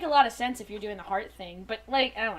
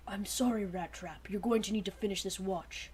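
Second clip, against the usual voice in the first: weak, grated voice; 5 semitones lower, 7 dB quieter than usual. Acted. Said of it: "voice was grated and weak".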